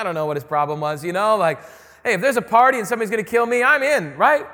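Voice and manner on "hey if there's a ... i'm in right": mock eager partygoer. Jesus mocked as eager partygoer.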